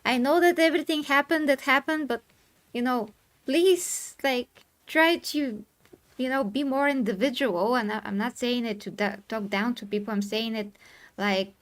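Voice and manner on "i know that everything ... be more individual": pleading castaway. Retold or imitated. The guy with the flag on the island, pleading for attention. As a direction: call out to everyone from the island, begging them to listen. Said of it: "the guy with the flag on the island".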